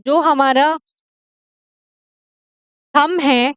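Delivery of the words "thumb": थंब said "tham", ending on m; teacher's model थंब, "thum"; correct silent-b "thumb". Shown as a demonstration. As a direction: close थंब on a hum, no b. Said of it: "इसमें बी silent है".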